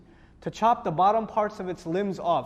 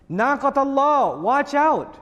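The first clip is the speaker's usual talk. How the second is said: urgent warning; 3 semitones higher, 4 dB louder than usual. Retold or imitated. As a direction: warn them sternly to keep away. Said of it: "There's warning".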